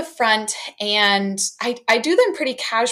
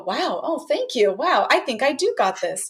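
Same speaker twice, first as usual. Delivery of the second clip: put-on delighted kid voice; 4 semitones higher than usual. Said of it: "they go".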